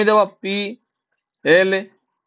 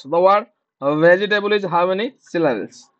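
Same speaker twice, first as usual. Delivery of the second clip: slower dictation; much slower than usual. Shown as a demonstration. Teacher repeating the question for students, even slower. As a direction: repeat it slowly one more time. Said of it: "repeat of the dictation".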